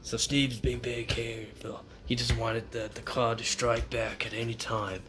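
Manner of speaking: mock Australian wildlife commentary; put-on Australian accent. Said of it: "Does it hurt to talk like that".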